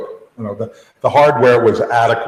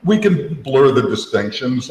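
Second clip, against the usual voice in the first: dismissive Apple voice; 3 semitones higher than usual. Retold or imitated. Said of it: "they decided".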